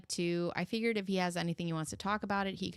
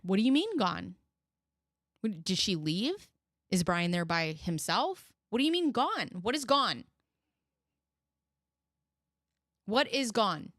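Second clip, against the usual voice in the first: pretend worried mother. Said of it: "maybe you would ask a question".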